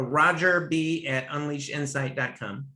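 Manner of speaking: slow, spaced-out email address. Real, not acted. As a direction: spell it out slowly for listeners to catch. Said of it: "One more time, a little slower".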